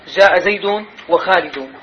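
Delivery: جاء زيد وخالد said slowly; deliberate slow جاء زيد وخالد. Shown as a demonstration. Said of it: "ضم يعني اشتراك ونسق".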